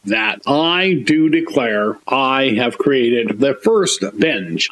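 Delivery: slow, formal proclamation; mock solemn declaration. Declaring his invention to the audience, slow and formal. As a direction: declare it like a legal record.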